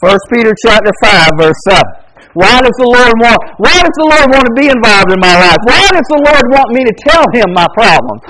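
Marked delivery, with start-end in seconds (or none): 2.4-8.2 rising, insistent preacher's questions; earnest pulpit build; preaching. Acted. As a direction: press the question home to the flock. Pleading questions in sermon.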